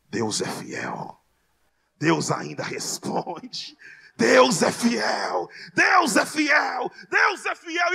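re-enacted church cries, repeated and swelling; imitated congregation shouting. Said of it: "começa a gritar".

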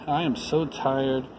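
put-on mild weary voice of an old engine; weary sighing. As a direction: sigh it out, worn to nothing. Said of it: "the rusty old engine sighed".

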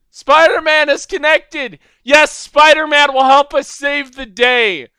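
loud, high heroic announcement; over-the-top hero hype; hyped announcer. Pretend. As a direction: proclaim it like a superhero herald. Hyped announcement of Spider-Man.

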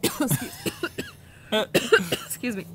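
coughing fit from a swallowed bug; clearing the throat after a bug; just swallowed a bug. Real, not acted. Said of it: "I think I swallowed a, a bug".

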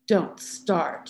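plain reading voice

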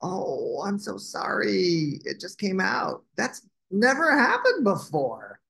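high, happily surprised little dragon; happy. Acted. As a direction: apologize while delighted with yourself. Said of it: "Douglas said happily".

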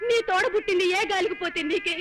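crying. Acted. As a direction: voice breaking into a sob. Mother pleads with her daughter. (తల్లి కూతురిని ఏడుస్తూ వేడుకుంటుంది)

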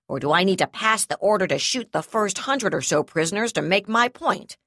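loud, rising furious ultimatum. Acted. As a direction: shout down the negotiation.

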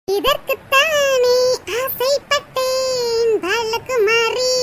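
very slow, stretched dramatic movie quote; drawn-out film line. Acted. Schemer gloating over her plan, very slow and dramatic. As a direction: savour each word like a film hero.

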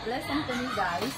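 joking demo of an Ilonggo accent. Shown as a demonstration. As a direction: show off Ilonggo-accented English, laughing. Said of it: "this is the accent of Ilonggo".

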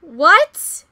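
screaming what, fading each time; huge disbelieving yell fading away; shocked shout. Real, not acted. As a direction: yell in disbelief then calm down. Reacting to Yunho's extreme line.

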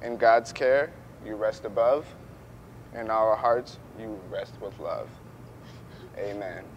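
soft, fading closing prayer; faltering tender eulogy. Acted. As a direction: let the verse fade gently.

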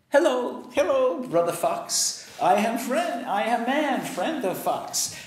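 butter up the fox; flattering man. Acted.

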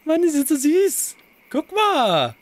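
high delighted gushing; cooing. Real, not acted. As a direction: melt over the ducklings. Admiring ducklings. (hohes entzücktes Schwärmen)

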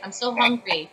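a touch of Pokemon voice on hunger line; lightly voiced Pokemon. Shown as a demonstration. Actor shows fans the Pokemon's subtext, lightly voiced creature. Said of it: "Then Gifliffy would say".

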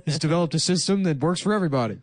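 grudging public. Acted. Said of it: "everyone has to be like".

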